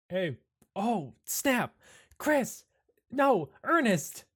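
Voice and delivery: mildly excited hailing across a crowd; calling out. Acted. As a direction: call them over with lively surprise. Calling friends over in character.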